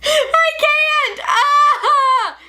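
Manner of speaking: high, loud helpless laughter; breaking up laughing mid-sentence; laughing fit. Real, not acted. Laughing fit while filming.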